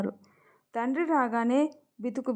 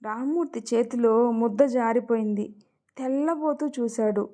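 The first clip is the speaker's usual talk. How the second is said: plain reading voice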